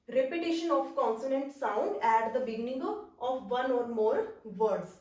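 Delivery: very slow, spaced-out dictation pace. Shown as a demonstration. Teacher dictating a definition to her class, very slowly. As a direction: read it out slowly so students can write.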